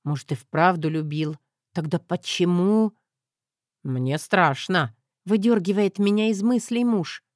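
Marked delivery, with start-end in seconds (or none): 3.8-4.9 lower, slow dry statement; deadpan husband. Acted. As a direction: say it flatly, mocking.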